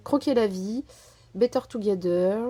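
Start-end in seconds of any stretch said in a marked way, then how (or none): 1.3-2.4 English title said with a French accent. Shown as a demonstration. Vlogger reading a collection name to viewers, French accent. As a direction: read Better Together the French way, not the English way. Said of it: "avec, euh, l'accent français".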